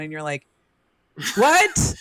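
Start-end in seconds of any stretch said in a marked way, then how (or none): 1.4-1.9 high, louder baffled "What?"; incredulous what. Retold or imitated. Mocking confused men, a high startled what. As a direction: throw out a disbelieving "What?".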